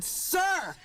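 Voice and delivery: high-pitched indignant address; exasperated. Retold or imitated. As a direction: stop the other person short with it. Acted exasperated retort to guard.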